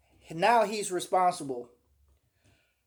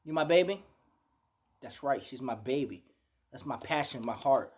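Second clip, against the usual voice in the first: doting affection; 3 semitones lower, 3 dB quieter than usual. Retold or imitated. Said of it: "Y'all hear me say it all the time".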